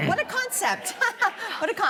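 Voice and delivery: mock amazement. Real, not acted.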